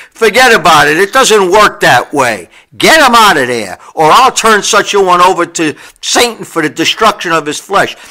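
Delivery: loud, forceful ultimatum; tough old Paul. Retold or imitated. Tough old Paul ordering the Corinthians to expel him, loud. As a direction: lay down the law like a tough old man. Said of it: "this tough old Jew, Paul".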